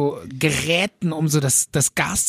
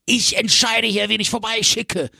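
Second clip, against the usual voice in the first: mild bossy dispatcher; 4 semitones higher than usual. Retold or imitated. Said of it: "Und ich so".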